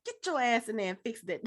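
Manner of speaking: mock-stern Black mama. Podcaster playing a mother ordering cooks back inside, Black mama voice. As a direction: scold like a fed-up Black mother, playfully. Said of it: "put on my best black mama voice".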